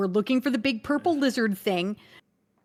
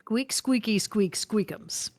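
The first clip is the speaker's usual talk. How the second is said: playful rat squeaks, slow at the end; speaking rat; slower than usual. Acted. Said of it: "use nature's voice".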